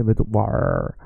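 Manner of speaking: var with a long, heavy R; overdone hard R. Shown as a demonstration. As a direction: lean hard on the final R of var. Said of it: "just make the R soft".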